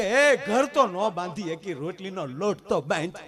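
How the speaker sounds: loud, slow scolding of the wife; retold angry scolding. Husband scolds wife over the dough, loud and slow. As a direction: snap at her, drawing each word out. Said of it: "હું ખીજાઈને બોલ્યો".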